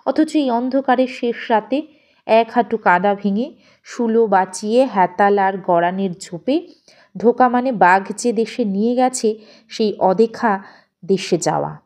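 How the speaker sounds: ordinary delivery, nothing marked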